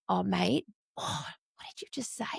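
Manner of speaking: hushed, unvoiced, gently probing; calm whisper. Carer calmly asking a swearing foster boy, whispered. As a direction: whisper it calmly, no anger at all. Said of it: "so I'm not angry".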